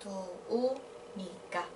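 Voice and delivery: slow, softly spoken "Tô unica"; syllable by syllable. Shown as a demonstration. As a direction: draw out "Tô unica", pausing between syllables. Teacher repeats the form by syllable.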